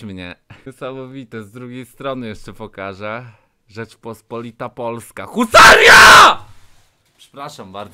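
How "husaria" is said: very high, loud, drawn-out battle cry; patriotic shout. Real, not acted. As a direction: bellow it like a war cry. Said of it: "zawsze tak reaguję".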